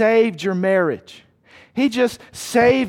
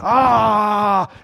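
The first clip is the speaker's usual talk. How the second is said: long open mock-ravenous "aah"; eager devouring "ah"; 4 dB louder than usual. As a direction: draw out a greedy cry. Acting out insatiable eager new believers.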